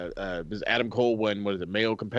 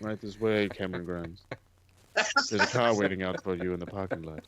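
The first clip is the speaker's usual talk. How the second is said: creepy butler; 4 semitones lower than usual. Retold or imitated. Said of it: "he sounded like the weird butler".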